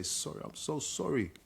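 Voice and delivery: slow, drawn-out sorry; retold apology. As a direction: imitate a heavy, lingering apology. Retells his father's apology.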